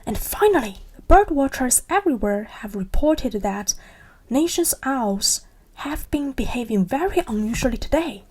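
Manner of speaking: evening news read; newsreader. Acted. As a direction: read it like a TV anchor. News report on television.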